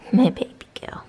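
whispering. Real, not acted. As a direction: whisper tenderly to the dog. Whispering to the dog.

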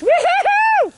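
long, high rolling woo-hoo; gleeful cheer from the sidelines; excited whoop. Real, not acted. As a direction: cheer them all the way down. Cheering a sledder on.

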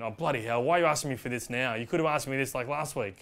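mock annoyance at a late request; mildly exasperated. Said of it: "it is mildly aggressive".

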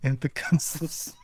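mock Russian villain justifying his castle; bad Russian accent. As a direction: lay on a cheesy Russian accent. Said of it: "two guys doing bad Russian accents".

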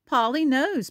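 put-on mildly proud storybook child. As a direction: say it with a touch of pride. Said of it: "Peppa says proudly".

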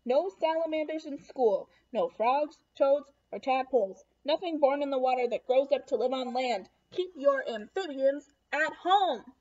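a firm teacher reading out the rules; stern rule list. Acted. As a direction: lay down each rule firmly.

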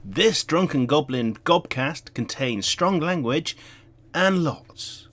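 deliberate podcast content warning; mock warning announcement. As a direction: announce it with drawn-out emphasis on "lots". Reads a mock warning intro.

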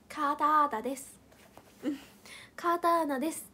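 winded after laughter; after laughing hard. Real, not acted. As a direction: catch your breath, still giggly. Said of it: "笑えんのよ".

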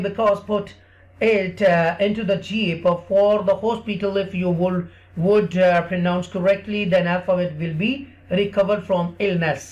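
slow, drawn-out English story voice; teacher's slow storybook English; slow story telling for kids. Acted. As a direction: tell it slowly to a small child.

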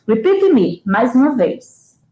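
rally the class to repeat; calling out. Real, not acted. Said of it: "chama a turma alto". (chamando a turma mais alto)

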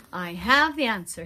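loud triumphant shout. Acted. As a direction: call it out with a sudden idea. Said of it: "sending up a great shout".

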